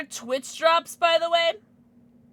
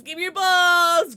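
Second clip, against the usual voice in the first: louder, higher barked demand; 5 semitones higher, 7 dB louder than usual. Pretend. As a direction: bark it like a demand. Repeated demand, varied delivery.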